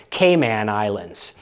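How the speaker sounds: Cayman with stress on man, kay-MAN; local Cayman. Shown as a demonstration. Showing how British locals say the islands. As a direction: put the weight on the man of Cayman. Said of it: "their emphasis being on the word man".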